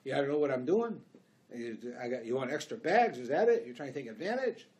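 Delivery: the bagger's mock outraged yell at a customer; imitating a yelling bagger. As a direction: play the rude grocery clerk barking back. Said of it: "The guy starts yelling at me".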